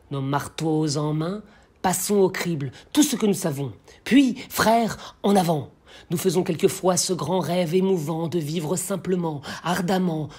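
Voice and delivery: rallying declamation; poem recitation. Acted. The blacksmith rallies his fellow workers, stirring declamation. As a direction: carry the verse forward like a call to brothers.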